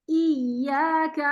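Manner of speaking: ایاک drawn out slowly; slow recitation. Shown as a demonstration. Teacher models the word for student, slowly. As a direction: stretch ایاک gently. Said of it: "حمزہ زیر یا ای".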